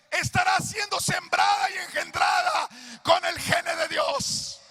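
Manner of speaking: put-on old pastor shouting revelation at his son-in-law; fervent preaching. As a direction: thunder it out like a preacher on fire.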